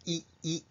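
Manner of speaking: "い" said with the tongue pushed right up; tongue-high "い". Shown as a demonstration. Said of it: "これは舌がぐっと上がっています".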